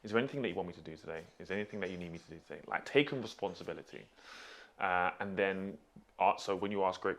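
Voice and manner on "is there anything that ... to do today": rattled-off question, very fast; imagined polite question. Retold or imitated. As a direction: run quickly through what should have been asked. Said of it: "gone to him and asked him".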